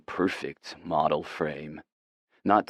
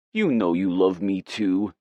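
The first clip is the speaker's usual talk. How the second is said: put-on baby voice; 2 semitones higher, 3 dB louder than usual. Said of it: "Again with the stupid baby voice".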